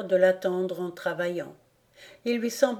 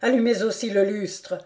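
cried out; 2 semitones higher, 4 dB louder than usual. Acted. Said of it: "s'écria le comte".

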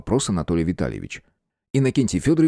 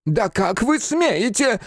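медленный высокий оскорблённый голос; растяни каждое слово от обиды; возмущённо; much slower than usual. Acted. Фамильяр вскочил в ярости. (оскорблённый фамильяр, медленно и высоко)

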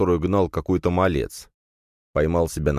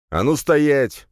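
loud, higher barked command; barked order; 9 semitones higher, 4 dB louder, much slower than usual. Acted. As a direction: snap them to stop. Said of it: "рявкнул я". (громкий окрик)

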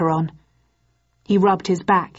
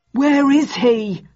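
high, slow, louder yell; a panicked higher yell, drawn out; 8 semitones higher, 4 dB louder, much slower than usual. A narrator's reading. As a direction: yell it out, searching for him. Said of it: "Bucket yelled".

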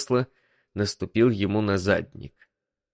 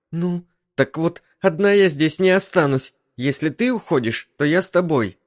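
higher female voice, insistent; stubborn wife; 9 semitones higher, 4 dB louder than usual. Acted. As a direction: dig in, refusing to stay alone. Wife's lines voiced high.

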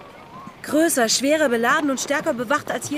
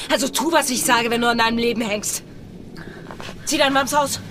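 cold threat. Acted.

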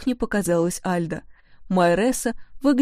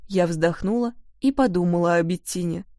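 ordinary delivery, nothing marked

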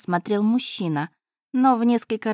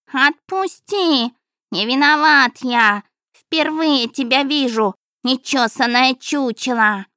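cat protesting; 5 semitones higher, 5 dB louder, slower than usual. A narrator's reading. Cat pleads while being beaten.

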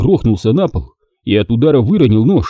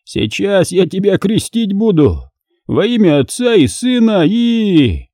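higher, slow mock-solemn taunt; hammed-up sneering blessing; mocking villain; 9 semitones higher, slower than usual. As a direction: play priest to humiliate her. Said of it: "упивался своей властью подонок".

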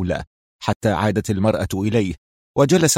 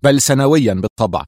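mildly raised protest; mild exclamation. Acted. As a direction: blurt it out, stung. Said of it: "هتف".

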